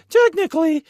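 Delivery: high-pitched nerdy correction; pedantic nerd. Acted. Mocking a superfan correcting people, high nerd voice. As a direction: pipe up like a know-it-all. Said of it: "geeking out on the nerds and just be like".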